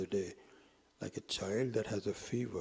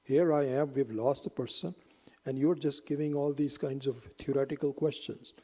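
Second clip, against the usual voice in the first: louder, exasperated outburst at being teased; boy scolding the wise man, louder and fed up; louder indignant protest; 4 semitones higher, 6 dB louder than usual. Acted. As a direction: snap back at him for wasting time. Boy angrily protests the questions.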